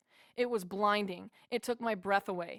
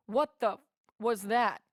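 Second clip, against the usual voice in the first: louder, jolted question; stunned blurt; 5 dB louder than usual. Retold or imitated. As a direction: blurt it out, shaken and amazed. Stunned after vision, blurting question.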